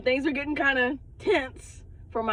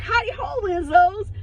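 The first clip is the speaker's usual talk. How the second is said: sitcom neighbor entrance; 12 semitones higher, 6 dB louder than usual. Retold or imitated. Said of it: "it was a T V show".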